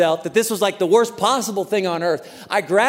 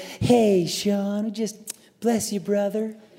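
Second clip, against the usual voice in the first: very humble, meek, soft-spoken and slow delivery; 5 dB quieter than usual. Retelling how a humble, meek man greeted him, imitating Mayo's soft-spoken voice. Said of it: "very soft-spoken".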